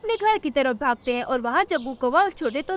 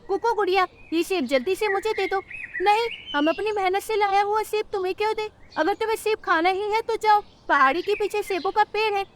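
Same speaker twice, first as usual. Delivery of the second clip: higher cartoon voices, bully demanding; bully crow and little sparrows; 6 semitones higher than usual. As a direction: act out the squabble over the apple. (सेब के लिए झगड़ते बच्चे)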